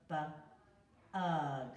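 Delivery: b, ug split into sounds; sounding out bug. Shown as a demonstration. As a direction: segment the word slowly, stretching ug. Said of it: "Letter U".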